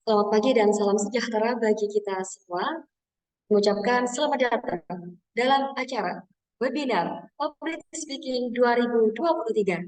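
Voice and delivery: formal event opening, lightly performed; MC welcome. Shown as a demonstration. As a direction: announce the webinar like a host. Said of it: "intonasi, aksentuasi, speed, artikulasi, dan juga power".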